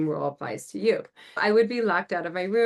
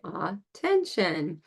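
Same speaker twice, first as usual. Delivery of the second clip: slow response; much slower than usual. Shown as a demonstration. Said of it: "And then I say".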